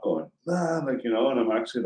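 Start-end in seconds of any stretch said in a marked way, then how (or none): 0.5-0.8 mock yell. Man yelling for his brother to wake him, mock yell. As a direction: let out a contained, high yelling sound. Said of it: "like, yelling".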